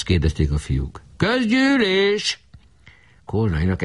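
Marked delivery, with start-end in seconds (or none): 1.2-2.4 very high, very slow stretched cry; drawn-out demand. Acted. Barabás demanding a meeting, stretched high and slow. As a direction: stretch the word high and long.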